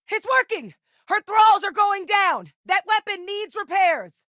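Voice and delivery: high-pitched, full-out battle yell; combat shout. Acted. Telling the team the thralls are going down, shouted. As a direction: call it out over the fight.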